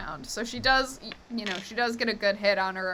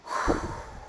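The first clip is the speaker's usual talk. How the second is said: heavy sigh; 4 dB quieter than usual. Acted. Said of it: "you just hear Forrest go".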